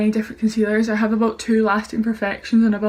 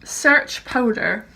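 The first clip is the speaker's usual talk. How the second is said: repeating to voice assistant; much slower than usual. Real, not acted. Commands to voice assistant.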